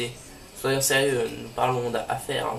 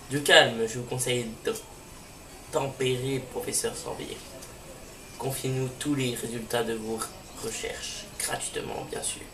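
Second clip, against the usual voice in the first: soft, hissing villain threat; a quiet menacing grunt boss; 4 dB quieter than usual. Acted. The villain threatens the professor, quiet and menacing.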